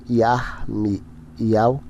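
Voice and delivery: Yarmial slowly, split as Yar-mi-al; correct name pronunciation. Shown as a demonstration. Teacher giving viewers the correct name, Yarmial pronounced slowly in pieces. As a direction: sound out Yarmial slowly, syllable by syllable. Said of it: "o nome correto é".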